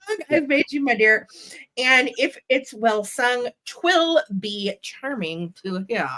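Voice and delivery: lilting rhyme, lightly amused after a slip; nursery rhyme reading. A narrator's reading. Seller resumes the rhyme after stumbling, nursery rhyme reading. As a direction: pick the verse up again in a sing-song lilt.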